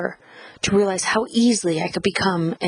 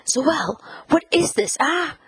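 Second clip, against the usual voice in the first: high-pitched, sharp demand; mother's high, indignant questioning; confronting mother; 7 semitones higher than usual. A narrator's reading. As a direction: scold your child with pitch leaping up. Mother angrily confronts narrator.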